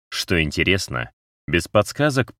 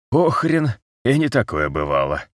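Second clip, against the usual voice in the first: battered man voice; 6 semitones higher than usual. A narrator's reading.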